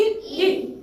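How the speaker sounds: ई cut short like the 'i' in ink; short I sound. Shown as a demonstration. Teacher showing the class I's short sound, quick ई. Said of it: "आई की short sound क्या होगी".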